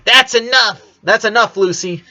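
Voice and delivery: big sister cutting in sharply to end the fight; firm intervention. A narrator's reading. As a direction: put a stop to the argument. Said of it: "finally intervening".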